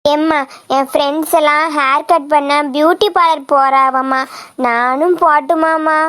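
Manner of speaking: low, coaxing plea to mother; wheedle, drawing out the final request; wheedling. Acted. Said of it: "என்ன கொஞ்சிட்டு அலையுதியா?".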